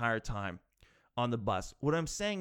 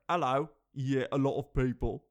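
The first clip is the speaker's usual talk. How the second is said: a second, more put-on try at a northern English accent; British accent retry. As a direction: redo the Sunderland local in a British accent. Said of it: "That's the worst accent ever".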